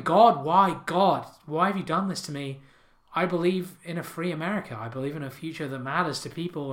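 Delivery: mock scream. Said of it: "And he's screaming".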